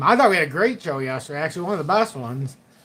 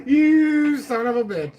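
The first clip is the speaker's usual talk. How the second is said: slow, higher, laughing through the insult; laughing mock insult; 8 semitones higher, 3 dB louder, slower than usual. Host reads a viewer's cheeky chat insult, laughing. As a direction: read the chat insult out while cracking up. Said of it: "who just said that".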